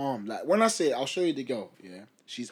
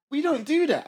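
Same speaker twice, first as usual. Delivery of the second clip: firm refusal; 12 semitones higher, 6 dB louder than usual. Retold or imitated. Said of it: "And I was like".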